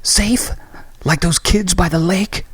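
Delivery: high, scornful disbelief; incredulous retort. Acted. Christy mocking Graham's idea of safety, incredulous. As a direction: throw his word back at him.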